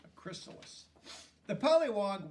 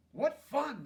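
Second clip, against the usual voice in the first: eager pollywog; 9 semitones higher, 6 dB louder than usual. Acted.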